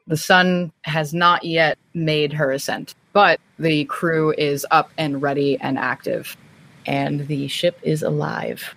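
game master opening a new chapter; storyteller narration. A narrator's reading. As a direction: paint the morning aboard ship. GM scene narration.

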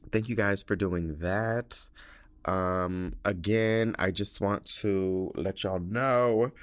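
talking with a mouthful; eating while talking; chewing while talking. Real, not acted. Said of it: "if you hear me eating right now".

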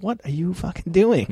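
high, startled mock outrage; shocked exclamation. Embarrassed son seeing his parents meet a shirtless star.

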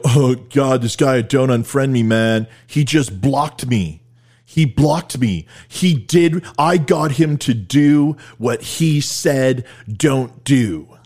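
slow, drawn-out mock grievance; mocking blocked complainers. Host imitating people he blocked, mock indignant complaint. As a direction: imitate whiners, dragging out each complaint. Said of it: "they go".

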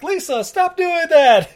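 high, loud, slow command; hammed-up horrified order; mock alarmed yell. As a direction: shout it high like cops bursting in. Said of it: "and they're like".

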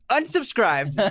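high, slow sing-song unsubscribed; drawn-out mock unsubscribe. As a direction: stretch it out high like a pouting fan. Punchline of reading comments.

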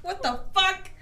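high, squeaky mock outrage; rising wail of disbelief; tearful disbelief. Sad boy asked if okay, tearful mock disbelief.

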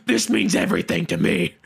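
half-laughing devoted fan; giggly melodramatic plea; laughing mock plea. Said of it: "I said".

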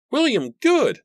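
high, ringing denunciation; loud, high dramatic proclamation; loud declaration. A narrator's reading. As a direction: declare the name at the top of the voice. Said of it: "Matthew declared".

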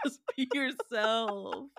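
slow, stretched repeat at ordinary volume; drawn-out plea. Real, not acted. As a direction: let the words drag out without shouting. Repeats the plea more quietly.

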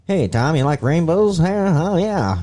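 forties radio voice. Retold or imitated. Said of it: "so they were talking like that".

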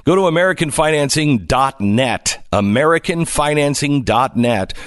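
persuasive radio sponsor read with punched key words. Acted. Host sells listeners on a mortgage company, ad read. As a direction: sell it like a radio host's endorsement.

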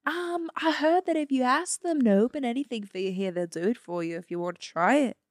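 put-on amateur Australian tourist accent. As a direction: put on a loose Aussie accent. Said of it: "we're Australian tourists".

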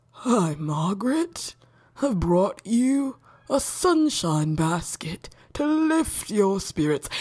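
put-on slow, gentle lovesick boy, fading to a whisper; devoted Jimmy. Smitten boy bringing a sunshine basket, slow and gentle. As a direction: offer it slowly and tenderly, like a gift. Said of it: "he's gonna be on the other end like".

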